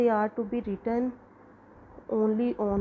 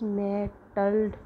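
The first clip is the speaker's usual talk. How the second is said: "mettled" said slowly, weight on MET; stress on first syllable. Shown as a demonstration. Teacher showing students the first-syllable stress, slow and deliberate. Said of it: "हमारा stress जो है, वो first syllable पे ज़्यादा रहा है".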